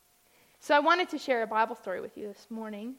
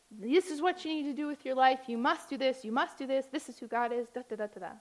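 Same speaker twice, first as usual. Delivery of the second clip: lightly mocked preacher laying down the law; insistent mock sermon, tailing off into rote filler; imitated preaching; 2 semitones higher than usual. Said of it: "in a preaching kind of way".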